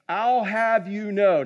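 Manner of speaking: slow, lightly mock-formal doctor; retold pompous doctor. Doctor correcting a puzzled paddleboard guide, mock-pompous. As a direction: imitate a doctor setting someone straight. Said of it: "you know this ain't my words".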